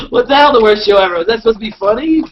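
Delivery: high, loud indignant laughing protest; mock outrage. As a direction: pretend to be scandalised.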